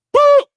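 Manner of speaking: high loud comic boom for the punch; cartoon punch noise; punch sound effect. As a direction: shout the impact like a cartoon hit.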